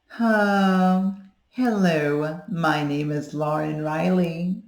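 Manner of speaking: light, bright head voice; head resonance. Shown as a demonstration. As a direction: speak from the head, no chest. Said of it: "when I don't have the, uh, as much of a chest voice".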